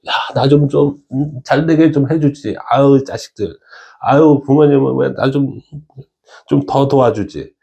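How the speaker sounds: whiny grumbling at parents and God, slightly hammed-up; mock resentful complaint. Someone blaming friends, parents and God for not helping, mock resentful. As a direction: play a put-upon grumbler. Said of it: "원망을 하잖아요".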